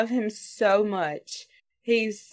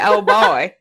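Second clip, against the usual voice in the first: laughing mock groan; 3 semitones higher, 7 dB louder than usual.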